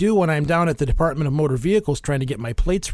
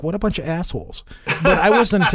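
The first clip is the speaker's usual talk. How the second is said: laughing through the words; 4 semitones higher than usual. Real, not acted. Podcast host joking about rude ghost hunters, laughing. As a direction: chuckle while you say it.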